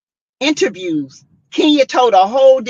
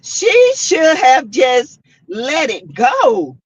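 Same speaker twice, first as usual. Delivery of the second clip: laughing; 3 semitones higher, 3 dB louder, much slower than usual. Real, not acted. Still laughing after comment.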